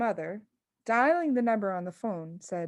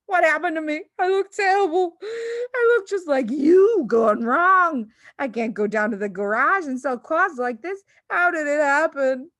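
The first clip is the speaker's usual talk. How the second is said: high, louder half-sob wailing; panicky wail; 7 semitones higher, 8 dB louder than usual. Acted. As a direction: wail in horror at his face. Father panics at mirror.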